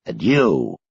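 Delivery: put-on low, slow, frail old man; old Sanderson. A narrator's reading. Old man greeting two boys, low and slow. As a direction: croak it out like an aged official. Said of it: "Sanderson tilts his head".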